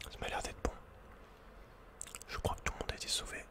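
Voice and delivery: ordinary talk, nothing marked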